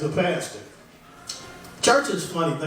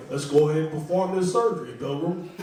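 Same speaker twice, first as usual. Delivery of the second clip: John Wayne impression; 4 semitones lower than usual. Comic doing a light John Wayne as a doctor. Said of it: "when John Wayne is a doctor".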